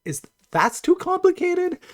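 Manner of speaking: rising, disbelieving squeak; incredulous disbelief. Retold or imitated. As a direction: act stunned someone found it hard. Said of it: "I'm like".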